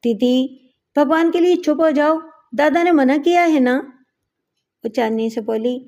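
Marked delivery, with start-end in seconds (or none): 0.0-0.5 a lightly raised call across the carriage; rising call of didi; calling from afar. Acted. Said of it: "Bhima نے دور سے آواز دی". 1.0-3.8 higher, raised call across the train; a mild pleading shout; calling from afar. Acted. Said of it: "Bhima نے دور سے آواز دی".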